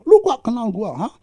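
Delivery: angry man. Retold or imitated. Angry man threatening the preacher, hammed-up loud taunt. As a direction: act out a hothead's threat. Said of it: "Coba kalau marah".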